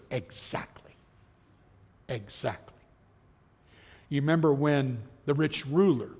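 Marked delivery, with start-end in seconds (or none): 0.1-2.7 very soft, hushed agreement; quiet confirmation. Acted. Preacher voices Jesus answering a despairing crowd, quiet confirmation. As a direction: let it drop nearly to a whisper, knowingly.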